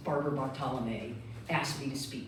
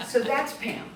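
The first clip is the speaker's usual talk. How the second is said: loud laugh spilling into words; delighted laughing punchline; 10 semitones higher, 8 dB louder than usual. Real, not acted. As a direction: crack up telling it. Laughing at the psychic's accuracy.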